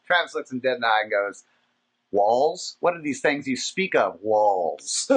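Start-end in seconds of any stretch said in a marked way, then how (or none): 2.1-5.1 mock-innocent, dropping low on the last word; hammed-up puzzlement; playing dumb. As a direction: feign total ignorance of the word. Friend plays dumb to cops.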